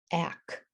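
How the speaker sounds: "ak" alone as one chunk; isolated syllable. Shown as a demonstration. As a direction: sound out "ak" by itself, softly. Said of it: "read that first syllable".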